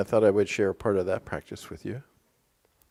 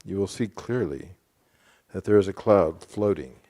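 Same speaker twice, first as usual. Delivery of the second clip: passage reading; 8 dB louder than usual. Real, not acted. Reads a passage aloud.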